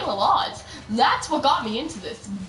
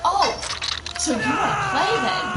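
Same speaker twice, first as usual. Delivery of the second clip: higher-pitched mock challenge; retold challenge; 7 semitones higher than usual. Retelling a dare between rivals, mock challenge. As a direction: throw down a playful dare, pitched up.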